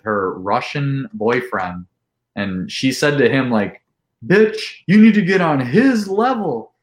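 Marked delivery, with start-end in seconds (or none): 4.2-6.7 lightly voiced sassy girl, higher and louder; mock-goad him to match the drinker. Girl at party goading her boyfriend, hammed-up sassy higher voice.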